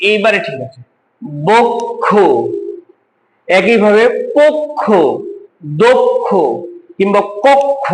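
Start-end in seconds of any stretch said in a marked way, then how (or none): 1.5-6.3 বক্ষ, পক্ষ, দক্ষ said as bokkho, pokkho, dokkho; each word with a closed o, pokkho drawn out slowly; teacher models বক্ষ, পক্ষ, দক্ষ with ওকার; o sound demo. Shown as a demonstration. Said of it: "একইভাবে উচ্চারণটা হবে".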